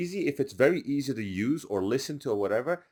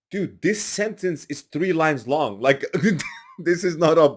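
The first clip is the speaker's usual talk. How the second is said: imitating producer; 6 semitones higher, 6 dB louder than usual. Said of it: "he goes like".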